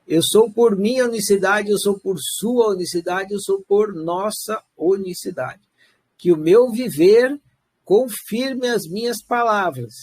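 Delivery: ceremonial affirmation, measured and deliberate; solemn recitation. Acted. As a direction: declaim it like a solemn vow. Recites the universality declaration. (declaração solene)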